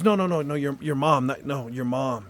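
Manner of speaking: quick nos, then press on "your mom"; insistent correction. Retold or imitated. Psychic insisting on correcting him.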